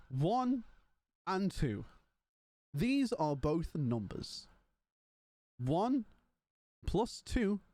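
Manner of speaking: put-on slow, drawn-out African accent, lightly done; mock an African maths tutor spelling out the obvious; a hint of a heavy African accent, slow and patronising. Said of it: "in a heavy, uh, African accent".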